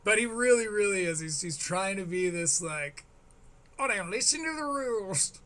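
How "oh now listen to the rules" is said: exaggerated caricature of a posing performer; mocking imitation. Host imitates the comedian he calls a poser, mocking imitation. Voices the comedian's pretended persona.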